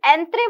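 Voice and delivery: एंत्रे said with "tre" at the end; pronunciation shown. Shown as a demonstration. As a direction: sound out एंत्रे as "en-tray", not "enter". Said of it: "एंत्रे सा उच्चारण हो रहा है".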